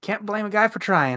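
high, loud, wry game-character voice.

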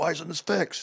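high, complaining mock yelling. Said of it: "he could be yelling at you".

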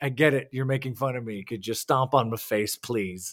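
exasperated, frustrated, fed-up tone. Voicing what a wrestler seemed to feel after a long match: imitating frustration. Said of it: "that looked like more frustration to me".

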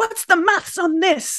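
play-acted, high-pitched shouting. Recalling shouting at people about a game last week, retelling her own shouting. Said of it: "the game I was shouting at people about".

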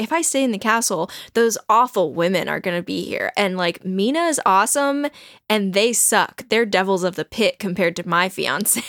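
plain

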